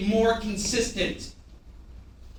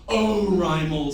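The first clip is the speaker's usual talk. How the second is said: shrugging it off; 3 semitones lower, slower than usual. Shown as a demonstration. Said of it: "shrug your shoulders and go".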